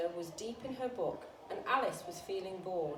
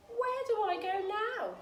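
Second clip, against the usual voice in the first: put-on lost girl; 11 semitones higher than usual. A narrator's reading. Lost Alice asks the cat.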